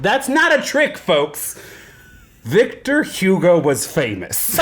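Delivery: lightly imitated, theatrical grand diction; slow, drawn-out mock-diva impression; Moira Rose. Host proves impersonations are bad, hammed-up impression. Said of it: "Most Moira Rose impersonations are bad".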